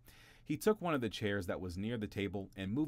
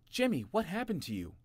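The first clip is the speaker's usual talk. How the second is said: middle brother asking; 11 semitones higher, 5 dB louder than usual. A narrator's reading. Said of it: "asked his middle brother".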